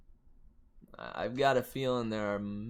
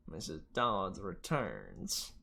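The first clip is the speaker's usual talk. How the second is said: southern demon voice; 4 semitones lower, 4 dB quieter, much slower than usual. Acted. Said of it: "trying to figure out how to do that southern accent".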